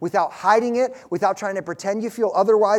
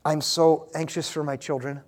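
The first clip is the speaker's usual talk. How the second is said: a worried parent's prayer, lightly voiced; sample prayer; 2 semitones lower than usual. Shown as a demonstration. Preacher modelling a parent's prayer, a touch of anguish. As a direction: confess fear for your children, mildly pleading. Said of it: "It looks like this".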